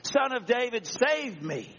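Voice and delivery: mildly acted cry for mercy; calling out. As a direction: plead aloud, stretching the last words. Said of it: "Are you the one calling out".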